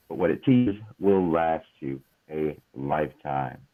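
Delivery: measured book-blurb read; reading aloud. Acted. Host reads a book's description to listeners, measured read-aloud. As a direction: read the description out clearly, phrase by phrase.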